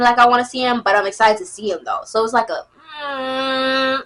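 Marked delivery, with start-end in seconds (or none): 3.0-4.0 torn whine. Acted. Acts torn about seeing him.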